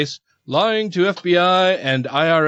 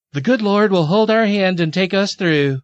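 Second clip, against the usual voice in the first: lightly hammed Southern accent, pitched higher; mock Southern accent; 4 semitones higher than usual. Host quoting the reality stars' statement, mock Southern accent. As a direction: read it as a pious Southerner. Reads Southern couple's pious quote.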